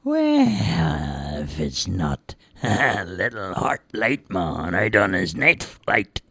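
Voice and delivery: lightly voiced mocking creature, slow; a hint of menace; sneering dark being. Dark being taunts Heartlight Man, slow sneer.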